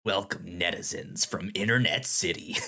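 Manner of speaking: deep, looming host voice; low magnetic voice. Pretend. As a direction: greet them like a menacing overlord. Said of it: "Your voice is so deep when you do that".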